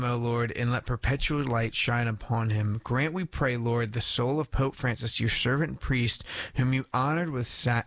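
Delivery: measured, reverent prayer for the dead; prayer reading. Real, not acted. Host praying for the soul of Pope Francis, formal prayer.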